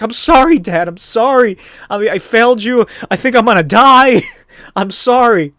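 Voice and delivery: high, loud hammed-up crying apology; mock crying. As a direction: wail it like a breakdown, half laughing. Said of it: "He's, like, crying".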